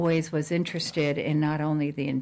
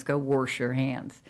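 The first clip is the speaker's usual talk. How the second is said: put-on Chicago accent; 2 semitones lower, slower than usual. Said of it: "from the Chicago kind of a, you know, accent".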